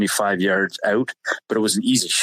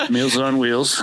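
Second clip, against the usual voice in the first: laughing; 3 semitones higher, slower than usual. Real, not acted. Laughs at brother's sandwich delivery.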